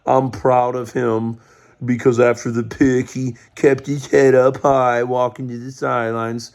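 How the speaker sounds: sneering imitation of a coach praising a rookie; mocking the coach. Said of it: "don't be like".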